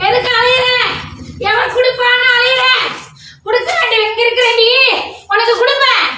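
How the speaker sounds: scolding goddess. Acted. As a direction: rebuke her like an angry mother goddess.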